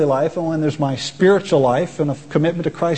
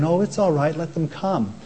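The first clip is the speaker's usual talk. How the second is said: gentle, softer, easygoing mock reassurance; a hint of a mild Jesus shrugging it off; winsome Jesus; 5 dB quieter than usual. Preacher mocking the meek Jesus reading, lightly and softer. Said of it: "Like winsome Jesus saying".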